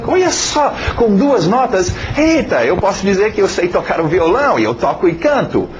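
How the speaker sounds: high-pitched amazed realization; retold delight, pitched well up; excited discovery. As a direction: relive the thrill of a sudden discovery. Acts delighted discovery on guitar.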